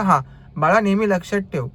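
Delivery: gentle, patronising mock advice; a lightly voiced kindly elder saying हां, बाळा; mock fatherly. Driver's first, wrong take of the customer's advice, mock tender. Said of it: "नाही, नाही, नाही, तसं नाही बोलला".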